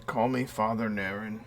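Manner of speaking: a hint of an old priest.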